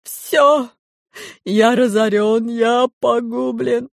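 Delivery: ruined pygmy wails to the crowd; crying out. A narrator's reading. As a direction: howl over your lost fortune. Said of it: "кричал пигмей".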